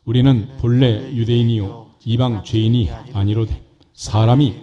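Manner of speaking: measured, emphatic Bible reading; scripture reading. Real, not acted. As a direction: read the verses aloud to a congregation, drawing out the phrase endings. Leads congregation reading scripture together. (또박또박 힘주어 읽는 성경 봉독)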